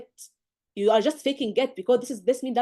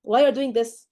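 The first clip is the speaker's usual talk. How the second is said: much higher and louder, gushing; overexcited mock flattery; 7 semitones higher, 7 dB louder than usual. Teacher mocks a student gushing that the patient looks young, high and loud. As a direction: overdo the compliment on purpose. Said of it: "if you're saying".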